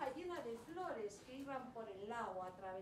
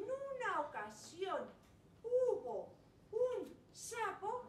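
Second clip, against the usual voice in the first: put-on wise old sage; 2 semitones higher, slower than usual.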